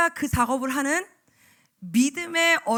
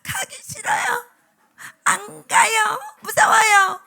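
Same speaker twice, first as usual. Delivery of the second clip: mock scared child; 8 semitones higher, 8 dB louder, much slower than usual.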